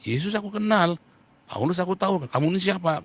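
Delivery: lightly voiced evil spirit sneering at the exorcists; taunting demon. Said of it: "katanya setan ini kan".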